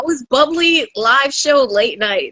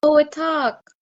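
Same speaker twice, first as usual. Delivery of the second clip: lightly voiced Jamaican robber demanding; Jamaican accent; faster than usual. Jamaican robber demanding his share in a Jamaican accent. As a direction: insist on the money in a Jamaican accent. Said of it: "a Jamaican and a Haitian".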